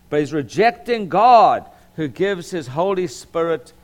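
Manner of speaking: emphatic pulpit reading, opening loud; Southern Baptist preacher. Real, not acted. Pastor reading God's call to holy lives, emphatic preaching. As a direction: declare the scripture with conviction. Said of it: "I sound like a Southern Baptist preacher".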